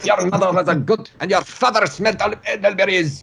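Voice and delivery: high-pitched, hammed-up comic taunter; mock taunting. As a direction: hurl it as a silly high-voiced insult. Quoting a Monty Python taunt.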